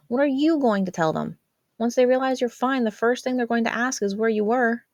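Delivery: a hint of a worried big sister; teenage sister voice. A narrator's reading. Jazz voiced by narrator.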